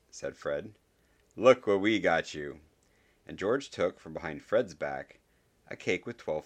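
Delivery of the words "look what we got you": excited reveal. Acted. Twin presents cake.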